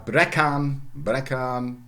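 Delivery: "breckern" with a short e, two syllables; Old English brecan. Shown as a demonstration. A lecturer gives the Old English verb, short vowel. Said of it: "German again, short vowel".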